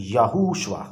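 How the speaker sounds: "याहूशुआ" read out from its letters, yaa-hoo-shua; pronunciation demo. Shown as a demonstration. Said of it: "letter जो हैं या हरूफ".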